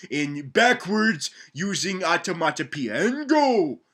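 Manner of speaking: mock teacher addressing raptor students; stern teacher. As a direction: lecture the class like a fussy teacher. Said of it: "and he's like".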